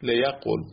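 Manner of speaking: لیقول with the v dropped, short ending; final form liyaqol. Shown as a demonstration. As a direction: say لیقول as le-ya-qol.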